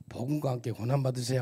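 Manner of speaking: loud, cheerful greeting to the person beside you; greeting the neighbour. Shown as a demonstration. Preacher leads the congregation in greeting: loud and bright. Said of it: "한번 옆 사람도 인사해 볼까요?".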